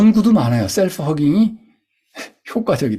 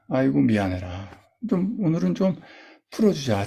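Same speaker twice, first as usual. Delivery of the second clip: soothing self-talk; 3 semitones lower than usual. Shown as a demonstration. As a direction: tenderly console your own tired body. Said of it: "좀 달래주세요". (다정하게 스스로를 위로하듯)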